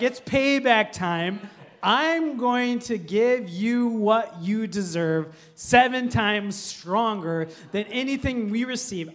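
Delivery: slow, deliberate mock threat; drawn-out, hammed-up threat; menacing payback. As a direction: pronounce vengeance word by word. Friends threaten him with payback.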